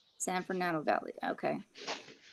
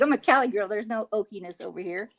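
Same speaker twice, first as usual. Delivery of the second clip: mock indignant insistence; 5 dB louder than usual. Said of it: "I'm like".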